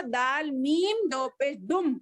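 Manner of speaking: दाल मीम दो पेश दुम with दुम ending on a held doubled म; merged dal-meem. Shown as a demonstration. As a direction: join the द into म and hold दुम. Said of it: "दाल को मीम से मिला लेना". (दुम में मीम की तश्दीद दबाकर)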